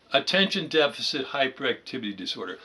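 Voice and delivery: Attention deficit hyperactivity disorder rushed out quickly; rattled off fast. Shown as a demonstration. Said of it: "Let's slow down".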